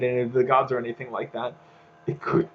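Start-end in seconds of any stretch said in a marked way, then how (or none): 2.1-2.5 burp breaking into speech. Real, not acted. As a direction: talk through a burp. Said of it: "I'm burping a lot".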